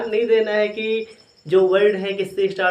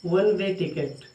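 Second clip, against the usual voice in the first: slowly spelled-out words; slow dictation; much slower than usual. Shown as a demonstration. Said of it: "चलो एक और लिख लो".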